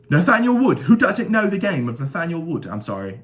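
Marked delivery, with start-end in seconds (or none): 0.1-0.8 "Nathaniel Wood" in a hammed-up British accent, pitched much higher and louder. Hyping the fighter's name to viewers, hammed-up British accent. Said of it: "I keep doing the British accent". 0.8-2.7 playful mock British accent, pitched higher. Asking viewers about the fighter, mock British accent. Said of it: "I keep doing the British accent".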